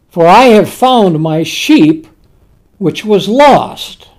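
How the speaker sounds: solemn, unhurried verse reading; scripture reading. Acted. Preacher reading the shepherd's words of joy, solemn. Reads scripture aloud in sermon.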